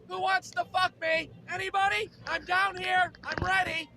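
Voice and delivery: high-pitched yell for attention; comic yelling. Acted. Guy in his basement seeking company, high yelling. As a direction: call out high, as the human cat. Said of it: "just yelling".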